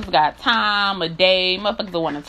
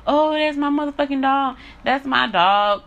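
mock buddy talk; 6 semitones higher than usual. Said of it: "I ain't tryna be".

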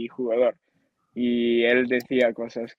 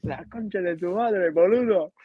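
lightly put-on Argentine accent, higher; mock Argentine accent; 6 semitones higher than usual. Player imitating himself in an Argentine accent. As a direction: tease like a porteño swearing at a friend. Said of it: "Yo, argentino".

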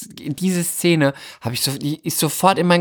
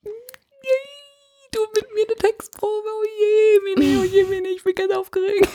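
much higher, squeaky breathless gushing; giddy fangirl. Pretend. Starstruck actress agrees to rehearse, squeaky gushing. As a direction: gush like a starstruck teen. Plays overexcited fan.

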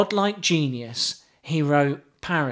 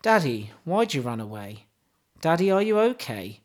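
mock poetry recital. Host reciting pop lyrics to co-host, mock solemn.

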